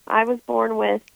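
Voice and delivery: stuffy, under-the-weather voice; talking while sick with a cold. Real, not acted. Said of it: "so I know my voice sounds a little weird".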